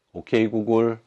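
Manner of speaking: calling out loud, pleading; calling out desperately. Real, not acted. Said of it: "아무리 애타게 소리쳐 불러도".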